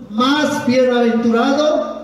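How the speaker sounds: "Más bienaventurado" slow with a rising end; cue to repeat. Shown as a demonstration. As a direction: leave "Más bienaventurado" hanging for the crowd. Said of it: "Vamos a repetir todos". ("Más bienaventurado" lento, invitando a repetir)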